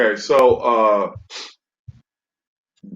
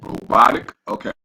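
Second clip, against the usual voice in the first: distorted mic. Real, not acted. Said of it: "it's, like, giving a lot of feedback".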